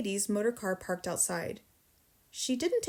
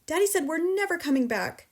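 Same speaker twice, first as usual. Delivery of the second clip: high, louder upset telling; distressed child; 8 semitones higher, 5 dB louder than usual. A narrator's reading. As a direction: close to tears.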